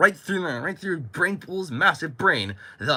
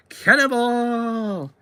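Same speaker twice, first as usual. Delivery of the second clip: long drawn-out high yell; cannonball yell; 9 semitones higher, much slower than usual. Acted. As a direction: shout it while leaping in. Jumping into the pool.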